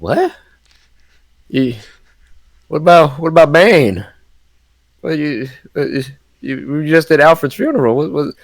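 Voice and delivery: mildly voiced cop, confused on the phone; Gordon baffled. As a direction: stammer in disbelief at the answer. Gordon reacting in disbelief.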